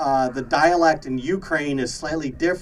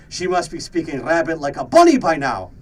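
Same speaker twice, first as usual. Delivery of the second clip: put-on Russian accent; 5 dB louder than usual. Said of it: "hear me speak with a Russian accent".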